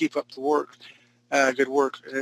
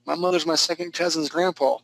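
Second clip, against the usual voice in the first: mock backwoods hill man, pitched up; hillbilly; 3 semitones higher than usual. Teacher jokes about a scary drawing, hammed-up hillbilly. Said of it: "up in the hills where I live".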